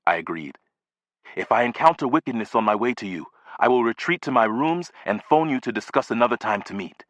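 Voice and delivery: grave, careful and hushed at the ends; lightly voiced formal old gentleman, secretive. Neighbor arranging a secret meeting with the boy, grave and secretive. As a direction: warn him like a fellow conspirator.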